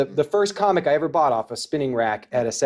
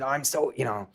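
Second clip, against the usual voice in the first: lightly voiced old Stan Lee, a bit lower; a hint of Stan Lee's excitement; half-hearted Stan Lee impression; bad Stan Lee; 5 semitones lower than usual. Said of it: "I'm gonna do a bad Stan Lee".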